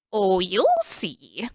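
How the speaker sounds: slow, drawn-out sly promise; sly tease. Acted. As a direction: savour the secret. King teasing with a chuckle.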